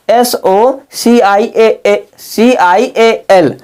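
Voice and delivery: very slow, letter by letter; slow spelling out. Shown as a demonstration. Teacher spelling social for students, slow and deliberate. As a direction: spell each letter out slowly for the class. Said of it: "इसमें सोशल".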